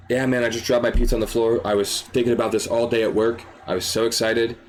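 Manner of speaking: low, crestfallen customer; understated acted heartbreak; on the verge of tears. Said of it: "you're on the verge of tears".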